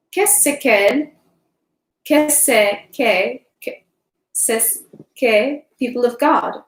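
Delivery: steady audiobook reading of a novel; story narration. Acted. Host reading War and Peace to her live audience, steady narration. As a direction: read the chapter to the listeners evenly.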